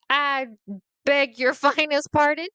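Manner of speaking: loud, high, laughing offense; mock outrage, half laughing; indignant. A child offended by the usher, loud and half laughing.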